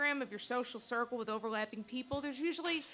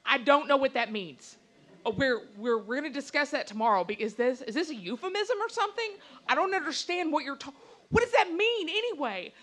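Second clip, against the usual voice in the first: louder, baffled angry questions; retold furious demand; 5 dB louder than usual. Girlfriend confronting her boyfriend in the car, angry. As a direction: demand an explanation, fed up. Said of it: "I am furious at this point".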